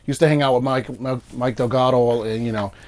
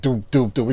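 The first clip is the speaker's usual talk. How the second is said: imitated beat. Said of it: "It all sounds like the same fucking beat".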